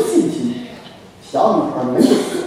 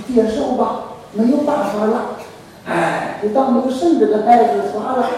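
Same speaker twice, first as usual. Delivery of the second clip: mock wailing despair; 6 dB quieter than usual. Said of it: "那哭泣宣告的声音说".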